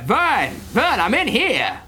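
high, contained yell for help; mock yelling. Bo calling Vern from behind the door, acted yell. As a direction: call urgently without full volume. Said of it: "uh, yelling".

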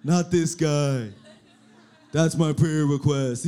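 grumbling worker. Retold or imitated. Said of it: "a lot of you guys are like".

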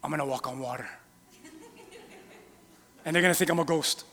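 hushed mock-whisper of Jesus; Jesus whispering his plan to the crowd; playful whisper. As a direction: whisper it like a secret prank. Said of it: "he's like".

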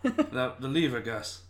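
high exasperated repeat of the order, leaning on "lever"; impatient magician. Pretend. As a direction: snap the order again, squeaking up on "The". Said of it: "He would just go".

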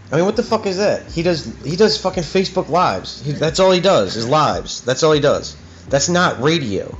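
real angry rant, pitch riding up; pissed off. Real, not acted. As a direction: rant like you're fed up and ready to expose them. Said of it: "I'm getting so pissed off right now".

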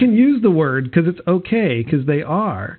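put-on light valley girl lilt. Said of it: "You sounded like such a valley girl".

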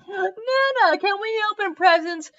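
put-on high, small child asking; a four-year-old pleading sweetly; little girl voice. A narrator's reading. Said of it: "Lyra asked her grandmother".

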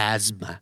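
"Asthma" with the S buzzing slightly like a Z, "AZ-ma"; buzzed S like Z. Shown as a demonstration. Teacher coaching learners on the S, "Asthma" said as "az-ma". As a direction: voice the S in "Asthma" a little, TH silent. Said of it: "ตัว S เนี่ยขอให้เป็นสันๆ เหมือนตัว Z นิดนึง".

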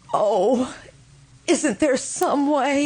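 a catch of a sob, then slow pleading; tearful plea. Acted. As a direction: beg through the tears. Widow pleading over dead husband.

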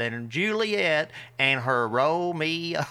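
put-on slow, drawled Texan accent. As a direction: say it like a country Texan cousin. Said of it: "in the most Texan accent you'd ever heard".

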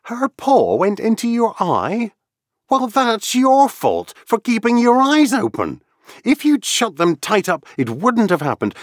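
put-on very high, loud girlish telling-off; a little girl playing strict teacher to her kitten; Alice, mock-stern. A narrator's reading.

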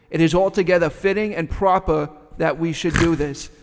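put-on measured recitation in a Boston accent. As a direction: read the speech out with Boston vowels. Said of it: "with your splendid Boston accent".

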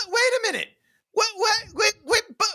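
very high, squeaky stammered protest; cartoonishly high flustered double take; mock disbelief. Acts out disbelief at sudden turn.

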